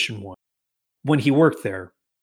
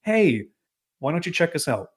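lightly playful come-on, higher pitch; enticing; 4 semitones higher than usual. Retold or imitated. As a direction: lure passers-by with a higher, inviting call. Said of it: "like, enticing".

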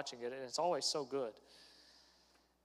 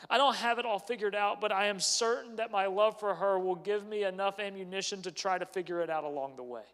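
passionate promise; 4 semitones higher, 6 dB louder than usual. Retold or imitated. Voicing himself to his in-laws.

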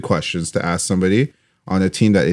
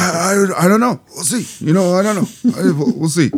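much higher-pitched coach impression; high-pitched imitation; 8 semitones higher than usual. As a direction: pitch it way up, hesitant non-answers. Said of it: "Your voice is too low pitched".

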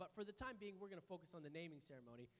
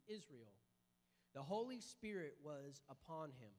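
scripture reading. Acted. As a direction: read the passage with reverence. Reads Luke chapter two.

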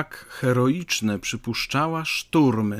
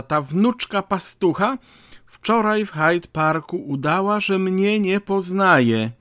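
put-on high-pitched indignant old lady; raised voice; 4 semitones higher than usual. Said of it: "gestykulując i podnosząc głos". (oburzona starsza dama podnosi głos)

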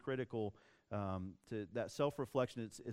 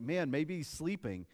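lightly teasing, as if musing aloud; mock taunting; 3 semitones higher than usual. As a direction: poke fun at a rival's god. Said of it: "Elijah has some fun with it".

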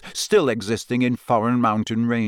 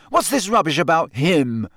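spat; 5 semitones higher than usual. Acted. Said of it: "Harry spat".

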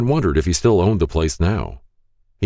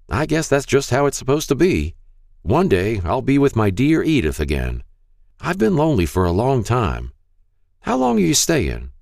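put-on high, frail old man voice; Mister Hall's frail voice; 8 semitones higher than usual. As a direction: speak like a frail elderly shopkeeper. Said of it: "a frail voice said".

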